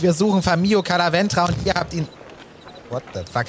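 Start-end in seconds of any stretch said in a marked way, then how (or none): 0.0-2.1 overdriven mic crackle; too close to the mic; clipping distorted mic. Real, not acted. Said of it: "Du übersteuerst gerade voll".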